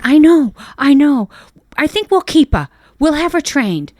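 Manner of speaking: pleading wife. Retold or imitated.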